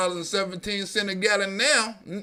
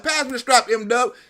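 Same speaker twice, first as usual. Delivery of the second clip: mock robbery shout; 5 semitones higher than usual. Joking to M Dub about robbing a guy, shouting. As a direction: hype it up until you shout the last line. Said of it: "I was like".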